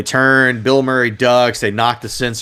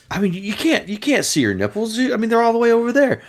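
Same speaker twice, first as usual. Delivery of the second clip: higher, pleading mock voice; imitating a producer; 11 semitones higher than usual. Producer argues with the censor in a high wheedle. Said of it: "and they're like".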